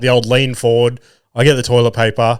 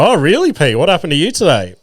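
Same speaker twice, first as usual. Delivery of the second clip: high, bright, over-eager question, much higher; humouring the little one; mock interested dad; 5 semitones higher than usual. Dad to his youngest son, playing along high and eager. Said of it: "I go".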